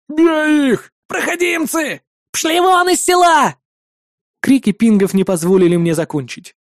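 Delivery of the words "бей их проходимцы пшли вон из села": high, hammed-up shrieking shout; angry village woman. A narrator's reading. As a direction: drive the strangers out, yelling. Crowd woman yelling at strangers. (разъярённая женщина кричит на чужаков, высоким голосом)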